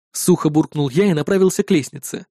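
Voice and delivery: usual speaking voice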